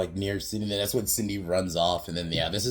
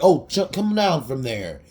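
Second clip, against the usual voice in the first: raised, louder mock plea; imitated calling out; 7 semitones higher, 7 dB louder than usual. Crowd calling to principal about to jump, mock alarm. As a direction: call up to someone high above.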